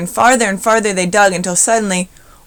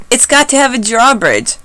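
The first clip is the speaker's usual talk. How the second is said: high, loud eager demand; insist, all fired up; 6 semitones higher, 6 dB louder than usual. A narrator's reading. Sammy joins in building the fort, high and eager.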